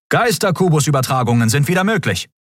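high, formal announcing voice; officer announcement. A narrator's reading. Comms officer announcing to the crew, formal. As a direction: announce it to the bridge.

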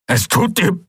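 high, incredulous and broken off; outraged outburst. A narrator's reading. Father rejects daughter's apology, angry and cut short. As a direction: throw her apology back, then stop dead. Furious father breaks off mid-reply.

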